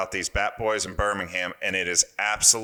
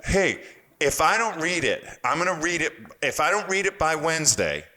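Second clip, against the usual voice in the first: mock mad; 6 semitones higher than usual. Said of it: "he gets mad".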